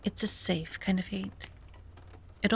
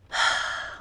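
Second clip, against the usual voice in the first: weary sigh; 4 dB louder than usual. Acted. Sighs after picturing bad luck.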